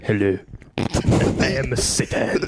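put-on Satan with a French accent. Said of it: "Of course he's fucking French".

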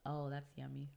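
sipping champagne while talking; talking right after a slurp. Real, not acted. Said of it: "Sorry for the slurping".

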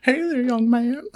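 put-on a creepy old man luring a boy, slow and leering; Herbert the pervert. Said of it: "Herbert the pervert".

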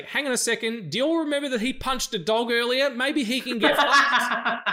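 loud, high, incredulous protest; outraged heckle, slowing at the end; indignant outburst. Pretend. Imagined shouting out at movies.

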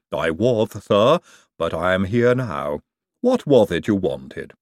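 slow lisping servant voice; Igor voice. Acted. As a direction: lisp it slowly, ever obliging. Igor answers Hubert.

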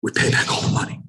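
raspy unvoiced voice in the head; haunting raven-like inner voice; Matthew Mitchell. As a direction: rasp it like a nagging memory. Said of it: "Matthew Mitchell's voice in my mind like a raven".

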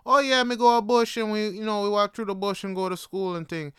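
breezy patois impression of mom reminiscing; imitating mom. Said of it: "like, my mom, when she told stories".

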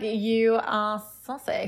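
slow, drawn-out mock leer; creepy flirt. Guest lining up his next man, mock creepy. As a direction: imitate a creep savouring each word. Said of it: "He's just being creepy".

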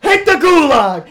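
loud acted victory jeer; gloating shout. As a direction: bellow the taunt at a beaten opponent. Gloating at killed enemy, retold.

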